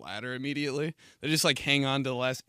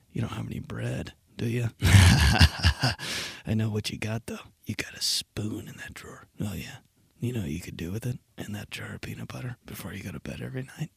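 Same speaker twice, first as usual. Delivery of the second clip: devil on shoulder; 3 semitones lower than usual. Pretend. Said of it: "the devil on my shoulder".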